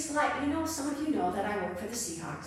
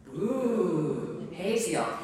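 a light mock boo from the congregation; mock booing crowd; 3 semitones lower, much slower than usual. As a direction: boo the villain, half playful. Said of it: "you would all say".

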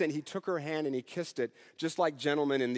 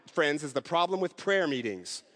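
laughing punchline. Retold or imitated. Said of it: "she looked at us and she said".

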